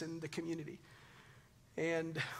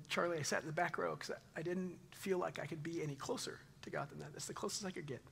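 hushed confession; 6 dB quieter than usual. Retold or imitated. Retold tender confession.

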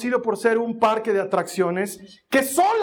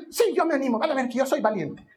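boastful little daughter; 2 semitones higher, faster than usual. Acted. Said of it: "María Joaquina?".

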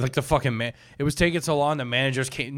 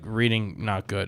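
deliberately dumb slow; 5 semitones lower, slower than usual. Shown as a demonstration. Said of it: "if I made fun of you".

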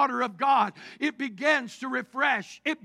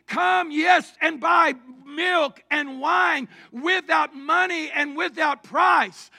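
folksy southeast Missouri crier; southeast Missouri holler; 2 semitones higher, 5 dB louder than usual. Acted. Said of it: "southeast Missouri vernacular".

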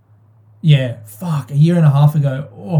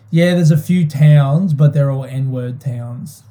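matter-of-fact dad; slower than usual. Retold or imitated. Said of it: "in his gruff, like, way that he speaks, very matter-of-factly".

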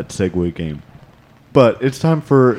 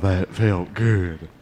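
relieved; 3 semitones lower, 6 dB quieter, much slower than usual. Acted. Sigh of relief after the act.

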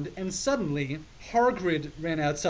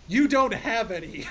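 louder, higher half-crazed yell; mad mock yell; 6 semitones higher, 5 dB louder than usual. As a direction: shout it like a gleeful lunatic. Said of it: "I yelled in madly".

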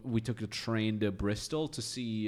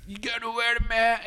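mock stern staff; 11 semitones higher, 6 dB louder than usual.

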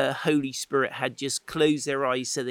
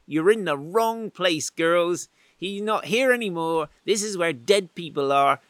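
angels' brisk message; 3 semitones higher, 4 dB louder than usual. Acted. Angels telling women at tomb.

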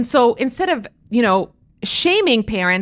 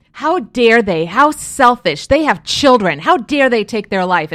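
loud, slowed mock indignation; imitated angry commenters; 5 dB louder, slower than usual. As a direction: quote the outraged critics, hitting each phrase hard. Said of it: "they were angry".

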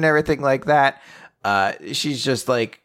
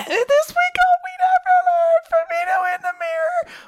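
much higher, put-on announcer voice; hammy TV preview voice; mock announcer.

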